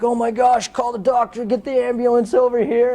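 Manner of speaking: imitating a panicked friend. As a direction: play the teammate freaking out, high pitch. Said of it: "he's all freaking out".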